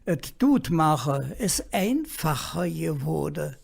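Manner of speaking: quiet, bitter cynicism; softly, with cynicism in the voice; cynical. Real, not acted. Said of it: "Du merkst mir einen Zynismus in der Stimme". (leise, mit Zynismus in der Stimme)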